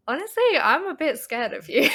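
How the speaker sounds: loud mock-fearful wail; mock scared confession. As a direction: cry it out, half laughing. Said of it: "And I was like".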